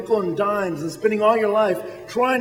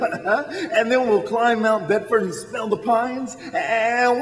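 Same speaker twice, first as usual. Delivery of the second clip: laughing; slower than usual. Acted. Laughing while dreaming aloud.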